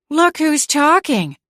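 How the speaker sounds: high, loud and slow retort; aunt snapping back at the cat, heated; fired back. A narrator's reading. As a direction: fire it straight back at her. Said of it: "Aunt Lavender fired back".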